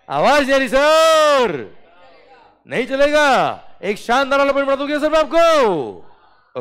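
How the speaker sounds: high, loud squeaky put-on student; mock student voice. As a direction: play a whiny student in a funny voice.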